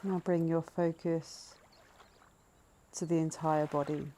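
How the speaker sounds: calm, measured breathing-meditation voice, leaving space between phrases; guided meditation. Acted. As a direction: gently lead listeners into noticing the breath.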